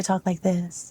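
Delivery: mock polite ladylike talk; put-on feminine voice. Shown as a demonstration. Showing how Orlando wants her to talk, mock feminine. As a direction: demonstrate a sweet, feminine way of talking. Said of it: "then I'm not feminine".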